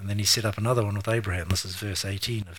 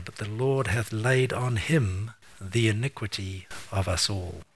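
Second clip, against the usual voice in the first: solemn scripture reading. Acted. Preacher reading Isaiah to the church, slow and reverent. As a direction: let each wound land slowly.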